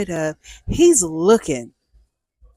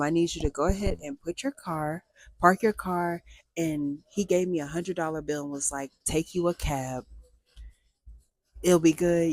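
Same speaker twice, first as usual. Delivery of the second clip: a touch lower and softer, calm advice; kind older neighbor; 3 semitones lower, 4 dB quieter than usual. Retold or imitated. Neighbor telling her to park the car, softly calm. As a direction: talk her down gently like a worried dad. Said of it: "and it's like".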